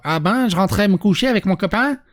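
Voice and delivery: badly faked Québécois accent, slightly lifted; attempted Québécois accent. Reader trying Alice's reply in a failed Québécois accent. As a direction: have a poor go at a Québécois accent. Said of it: "je sais pas faire l'accent québécois".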